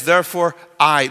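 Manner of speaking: I set apart and said loudly; emphatic stress on I. Acted. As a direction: punch Therefore, then a forceful lone I. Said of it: "He sticks it up front".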